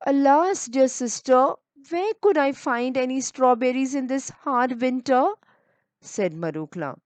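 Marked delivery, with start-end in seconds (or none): 0.1-5.2 pleading. Acted. Marukla pleading, alas is sad.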